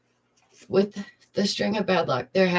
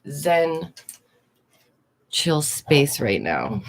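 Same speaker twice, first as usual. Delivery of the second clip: zen calm; 4 semitones lower, much slower than usual. Shown as a demonstration. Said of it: "I need a very, like".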